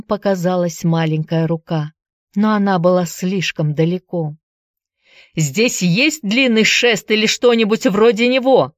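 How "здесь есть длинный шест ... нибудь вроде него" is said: Andy shouts to workers for a long pole; shouting. Acted. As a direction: call out for a pole. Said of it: "закричал Энди".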